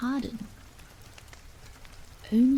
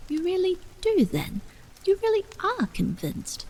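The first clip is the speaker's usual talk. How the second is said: louder and higher, pressing him hard; eager disbelief; 9 semitones higher, 4 dB louder than usual. A narrator's reading. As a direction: burst out, needing him to confirm it. Anxious mother presses the vicar.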